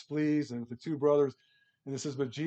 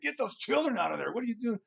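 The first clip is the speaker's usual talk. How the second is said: imitating affronted disciples, pitched up; indignant; 9 semitones higher, faster than usual. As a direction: scold in a raised, put-on voice. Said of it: "the disciples get indignant".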